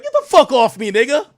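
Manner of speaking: loud, high mock yell as the female dog; hammed-up shout of get off me. Voicing his female dog yelling at the male dog, loud mock shout.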